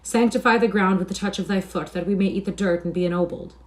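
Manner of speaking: loud, hammed-up pleading; mock-grovelling appeals, each starting strong and falling away; mocking supplication. A narrator's reading. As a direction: beg with exaggerated reverence. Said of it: "ironical wailings and mocking supplications".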